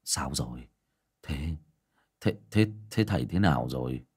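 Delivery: a hint of nervous stutter; anxious stammer. A narrator's reading. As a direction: stumble over the question, anxious. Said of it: "Bác Vó hỏi".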